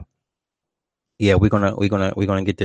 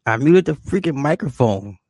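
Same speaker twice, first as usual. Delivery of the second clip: sharp retort; 7 semitones higher, slower than usual. Real, not acted. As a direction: bark it back playfully. Mock scolding someone in room.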